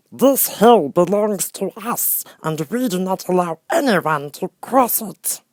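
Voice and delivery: high, slow, stern gatekeeper; Hammerhead creature voice. Acted. Hammerhead forbidding travelers to cross, slow stern voice. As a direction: lay down the law from the rock.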